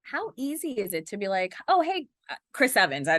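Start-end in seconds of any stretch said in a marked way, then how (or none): 1.7-3.1 high, eager mock fangirl hello; starstruck greeting. Interviewer greeting a movie star, high eager mock gush. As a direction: gush a nervous hi to a celebrity.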